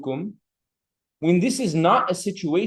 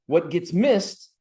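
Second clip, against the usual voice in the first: slow emphasis; 3 semitones higher, much slower than usual. Shown as a demonstration. Teacher slows to stress point.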